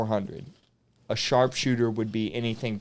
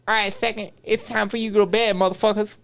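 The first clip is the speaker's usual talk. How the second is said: higher, barking drill sergeant call to the platoon; drill sergeant impression; 9 semitones higher, faster than usual. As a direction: bark the bedtime order like a sergeant. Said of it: "that I could impersonate pretty well".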